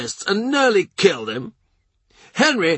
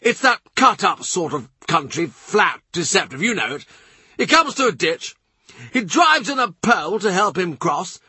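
much higher, pressing, urgent storytelling; furious and earnest; 12 semitones higher than usual. A narrator's reading. Norfolk pressing his tale on the courtiers, furious and high. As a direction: keep pushing on in agitation. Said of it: "Wincing but furious, earnest, he presses on".

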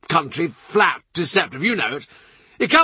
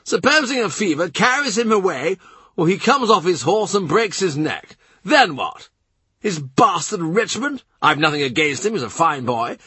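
much higher, hectoring and insistent; Norfolk demanding; 9 semitones higher than usual. A narrator's reading. Norfolk lecturing the courtiers on succession, demanding and high. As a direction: hammer each question at them. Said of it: "Norfolk demands".

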